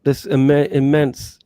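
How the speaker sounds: high, loud feigned astonishment; mock surprise. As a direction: act amazed at the find. Mock-surprised website reveal.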